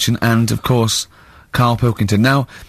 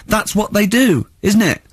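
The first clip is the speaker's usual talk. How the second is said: raised, a touch higher imitation of Carl; imitating Carl; 9 semitones higher than usual. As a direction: lightly mimic Carl's innocent certainty. The speaker voices Carl's reply.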